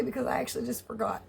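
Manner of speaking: normal talking voice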